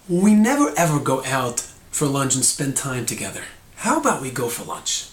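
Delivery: inclusive suggestion, easing off at the end. Shown as a demonstration. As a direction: demo of a complaint without blame. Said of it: "It doesn't sound as negative".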